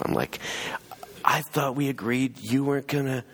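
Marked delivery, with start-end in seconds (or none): 1.2-3.2 higher-pitched protest; retold annoyance. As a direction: act out a miffed objection without shouting. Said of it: "I'm pissed off".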